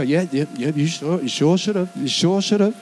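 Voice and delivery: lightly voiced, smug and judgmental; mock smug told-you-so. Preacher mocking a judgmental Christian, a light sneering told-you-so. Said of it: "come back and go".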